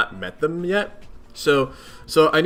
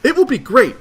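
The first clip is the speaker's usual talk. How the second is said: lightly raised, eager troll voice; an eager young sea troll; toned-down fish troll voice; 8 semitones higher, 7 dB louder than usual. Pretend.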